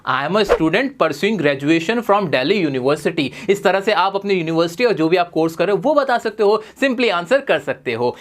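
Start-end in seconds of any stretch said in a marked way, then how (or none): 0.0-3.3 stretched very slowly, each word apart; slow model phrase. Shown as a demonstration. Teacher modelling a new phrase for students, very slow. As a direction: draw the phrase out for the class. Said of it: "फिर ऐसे बोलना".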